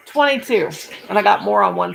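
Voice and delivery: laughing disbelief at the count. Real, not acted. Recounting her stitches, laughing at the total. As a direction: laugh out the number.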